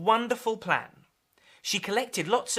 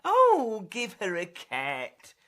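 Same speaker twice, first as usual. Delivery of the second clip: weary mum; 4 dB louder, slower than usual. Acted. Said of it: "complained Mum".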